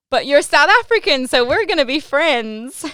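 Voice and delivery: high, loud and thrilled, slowing on friends; excited squeal at a fellow South African; delighted. Retold or imitated. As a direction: gush with relief at finding a countryman.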